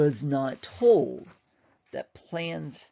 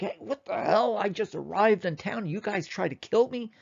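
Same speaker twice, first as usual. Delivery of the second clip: higher, indignant outburst, retold; mock furious; 6 semitones higher than usual. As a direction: play the insulted archduke, half-heated. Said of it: "and he's furious".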